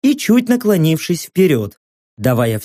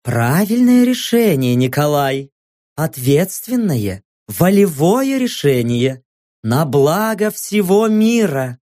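TV host voice; slower than usual. Acted. Host praising Nikolai.

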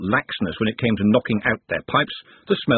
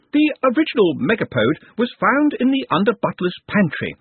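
higher pompous academic voice; pompous old wizard; 11 semitones higher than usual. Acted. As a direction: lecture it like a fussy old don. Narrator voices Master of Traditions.

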